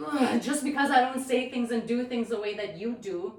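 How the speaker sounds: mildly indignant, hurried toward the end; retold upset. Teller reliving upset over a learning test, mildly indignant. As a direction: act out mild indignation, speeding up. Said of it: "I was getting more and more upset".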